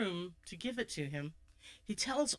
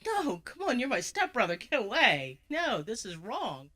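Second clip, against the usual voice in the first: frightened refusal; 4 semitones higher, 4 dB louder than usual. Acted. Tammy refuses stepbrother.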